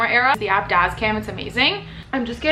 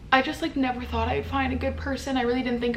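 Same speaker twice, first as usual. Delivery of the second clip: tearful; 3 semitones higher than usual. Real, not acted. Emotional about finding partner.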